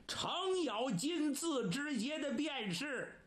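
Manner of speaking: lightly voiced swaggering rebel; boastful outlaw. Rebel announcing himself to his foe, lightly acted boast.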